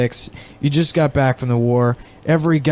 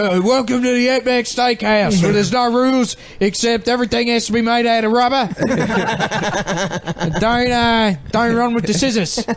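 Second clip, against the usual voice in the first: high, slurred, hammy character voice; a hammed-up dim Australian; mentally disabled Australian voice; 8 semitones higher than usual. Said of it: "He's the Australian retard".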